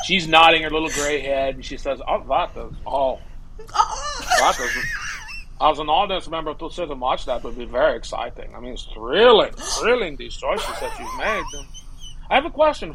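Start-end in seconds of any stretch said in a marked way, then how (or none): 2.1-12.9 Bella impression. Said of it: "you do a great impression".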